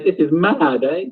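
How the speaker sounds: a touch of excitement, lifted high; excited Kathy. Acted. Teacher voicing excited Kathy over a death, lightly thrilled. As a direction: read Kathy's line with mild glee. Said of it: "She's actually quite excited".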